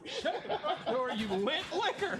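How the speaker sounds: laughing commercial imitation; commercial quote. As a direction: quote the old ad while laughing. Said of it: "Good commercial".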